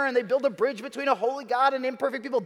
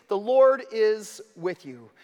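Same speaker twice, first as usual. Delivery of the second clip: slow quoted line; slower than usual. Shown as a demonstration. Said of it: "which is".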